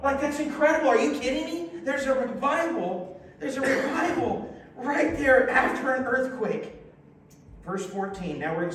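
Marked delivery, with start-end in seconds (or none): 0.0-6.7 excited disbelief. Real, not acted. Preacher marvels at revival.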